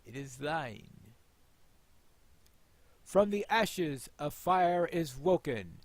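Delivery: slow, ceremonial lord's voice; solemn presentation. Acted. Player voicing Elrond handing Anduril to Aragorn, solemn. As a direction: present the sword with gravity.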